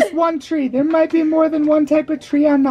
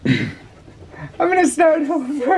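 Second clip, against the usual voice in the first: laughing; slower than usual. Real, not acted. Laughing after page-licking scolding.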